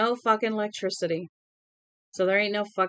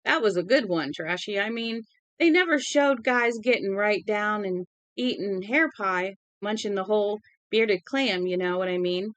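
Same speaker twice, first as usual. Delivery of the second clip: put-on drunken Southern accent. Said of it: "his southern accent grew more pronounced, putting fur on his words".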